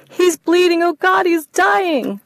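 high, very slow, tearful moan; panicked crying. Acted. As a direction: drag it out in panic. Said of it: "panic wagon".

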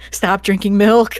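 mock scolding. Mock scolding a growing kid.

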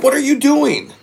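high-pitched incredulous protest; retold incredulity. Retelling his reaction to the engineer's gun, incredulous. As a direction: pitch way up in disbelief.

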